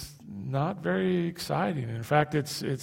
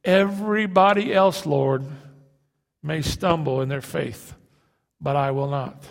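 swaggering Peter; 4 dB louder than usual. Retold or imitated. Peter boasting to Jesus, mock swagger. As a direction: boast like he could never fail. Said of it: "You can almost hear the swagger in his voice".

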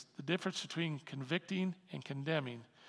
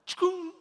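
much higher, louder zap; laser zap sound; 14 semitones higher, 10 dB louder than usual. Acted. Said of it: "like a pinpoint of light".

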